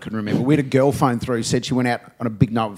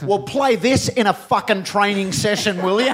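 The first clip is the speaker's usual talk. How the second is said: mock angry retort; 6 semitones higher than usual. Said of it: "got really annoyed".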